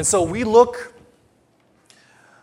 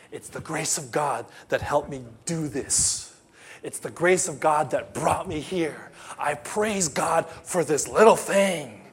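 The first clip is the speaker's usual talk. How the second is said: humble testimony; slower than usual. Retold or imitated. Grateful believer giving testimony, slow and sincere. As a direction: give thanks gently.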